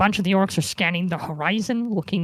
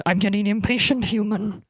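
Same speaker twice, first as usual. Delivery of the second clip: orc voice. Acted. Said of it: "the orc says to Rian".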